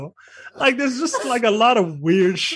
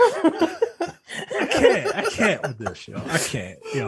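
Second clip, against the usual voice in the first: helpless laughter; 3 dB quieter, slower than usual. Real, not acted. Co-host giving up on the movie, real helpless laughter. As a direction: laugh too hard to go on.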